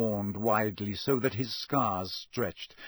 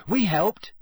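quick; 7 semitones higher, 5 dB louder than usual. A narrator's reading. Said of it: "Ron said quickly".

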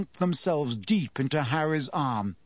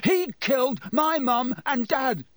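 roaring; 10 semitones higher than usual. A narrator's reading. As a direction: roar it at your parents' killer. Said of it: "Harry roared".

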